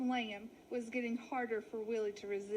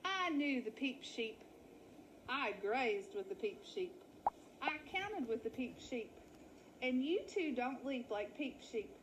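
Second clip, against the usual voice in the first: put-on suspicious old ewe. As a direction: lay out the evidence one by one. Betty grows suspicious.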